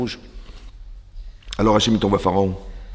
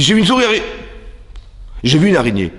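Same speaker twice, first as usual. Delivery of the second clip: mock frightened wife; 4 semitones higher, faster than usual. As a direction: play the scared wife crying out about the spider. Wife's frightened reply.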